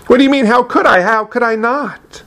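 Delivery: quizzical. Acted. Peter answering someone who asks how he did it, quizzical. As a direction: imitate someone taken aback by the question. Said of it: "look at you quizzically and say".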